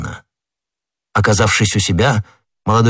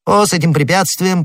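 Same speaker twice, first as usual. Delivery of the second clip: lightly voiced d'Artagnan; 9 semitones higher than usual. A narrator's reading.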